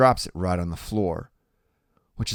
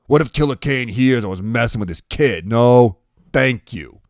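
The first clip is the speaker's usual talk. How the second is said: loud, slightly higher refusal; Iggy, wary; 4 semitones higher, 10 dB louder than usual. Acted. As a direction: refuse firmly as a story tough guy.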